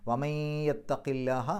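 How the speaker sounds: slow chanted വമയ്യത്തക്കില്ലാഹ with a light ലാഹ; Quran recitation. Shown as a demonstration. Teacher recites the verse, slow chanted recitation. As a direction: intone വമയ്യത്തക്കില്ലാഹ slowly, thin ല in ലാഹ. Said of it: "ലാഹ എന്നുള്ള ഉച്ചാരണം കിട്ടും".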